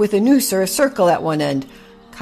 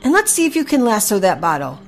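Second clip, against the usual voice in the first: raised, louder cheering-on; encouraging coach; 6 semitones higher, 5 dB louder than usual. A narrator's reading. Horse Henry coaches Packy with the lasso, excited encouragement. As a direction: urge a beginner on with eager, high energy.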